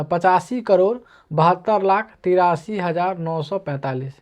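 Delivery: slow, deliberate reading of the number; slow demo reading. Shown as a demonstration. Teacher shows students how to read it the Indian way, slowly. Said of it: "तो इसको आप पढ़िएगा".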